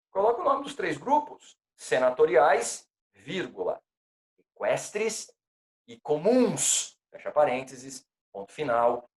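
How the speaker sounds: dictating punctuation aloud. Shown as a demonstration. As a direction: spell out each item and comma. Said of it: "dictating with punctuation".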